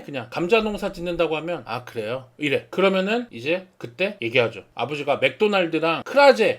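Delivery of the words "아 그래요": quiet, lower, uninterested "oh really"; a touch of indifference; lukewarm reply. Retold or imitated. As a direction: shrug it off, mildly unimpressed. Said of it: "뭔가 왠지 시큰둥해".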